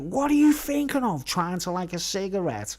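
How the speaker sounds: hammed-up nurse giving dad a row; mock nurse bollocking. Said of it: "She's like".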